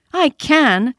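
high, eager toy-rabbit voice; little rabbit insisting. A narrator's reading. Toy rabbit insisting to the wild rabbit, high and eager. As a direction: pipe it up like a small boastful toy. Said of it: "said the little rabbit".

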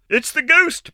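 loud high blurted cry. Acted. Little Giry blurts out her fear, loud. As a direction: blurt it out despite herself. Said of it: "blurted little Giry".

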